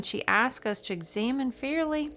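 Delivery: lilting southern-accented book reading. Real, not acted. Tarot reader reading to viewers, slipping into a southern accent. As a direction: read with a touch of southern accent. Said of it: "I'm getting my southern accent on".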